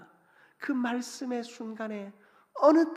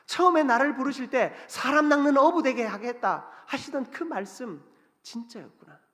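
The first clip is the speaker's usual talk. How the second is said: rising realization; 2 semitones higher, 6 dB louder than usual. Acted. Peter's realization builds.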